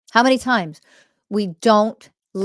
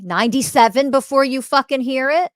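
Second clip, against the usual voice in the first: raised, higher, incredulous; exasperated outburst; 6 semitones higher, 5 dB louder than usual. Real, not acted. Teacher to her audience, an exasperated raised outburst. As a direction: throw the number out in disbelief.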